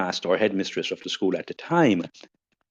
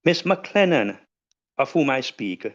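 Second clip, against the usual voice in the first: slightly raised, measured oratory with deliberate pauses; stately podium address; formal tribute speech; 3 semitones higher than usual. Acted. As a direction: deliver a solemn tribute, phrase by phrase. Delivers formal written tribute speech.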